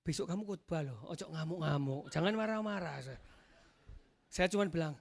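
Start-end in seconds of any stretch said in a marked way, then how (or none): 0.1-3.0 lightly voiced angel, lowered pitch; quietened, low-pitched warning; cautioning angel. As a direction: caution him calmly, as an angel would. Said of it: "Tuhan kirim malaikatnya bilang".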